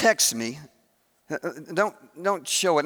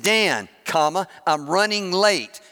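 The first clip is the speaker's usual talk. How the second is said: dictating. Retold or imitated. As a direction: spell it out for the voice assistant. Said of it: "I said".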